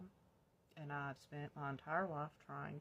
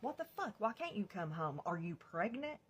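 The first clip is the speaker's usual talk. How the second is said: mock angry mom; 5 semitones higher than usual. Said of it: "She's like".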